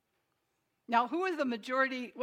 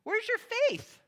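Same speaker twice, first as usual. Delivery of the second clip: high, loud rebuke; displeased demand, pitched up; not happy; 11 semitones higher, 6 dB louder, slower than usual. Acted. Jesus to the disciples who woke him, loud and displeased. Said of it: "he's not happy about it".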